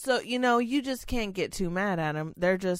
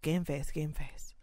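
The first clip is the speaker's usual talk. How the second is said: quiet self-reminder; 2 semitones lower, 7 dB quieter, slower than usual. Retold or imitated. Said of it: "I'm always telling myself".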